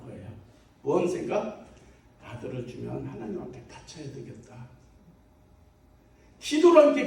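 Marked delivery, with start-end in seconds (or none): 2.2-4.7 softly voiced, lower-pitched resolve; lightly acted private prayer; quiet inward vow. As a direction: drop low and soft for the vow. Voicing Hannah's inward vow.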